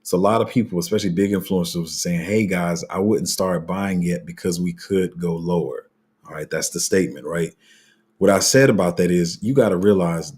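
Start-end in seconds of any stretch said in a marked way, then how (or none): 2.2-5.9 slow, deliberate retelling; measured, drawn-out quote; said slowly. Shown as a demonstration. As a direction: spell it out slowly so they understand. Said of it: "Let me say this slowly so y'all understand".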